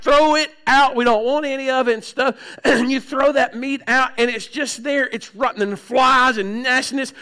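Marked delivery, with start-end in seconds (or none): 0.0-2.4 insistent mock order. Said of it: "she's like".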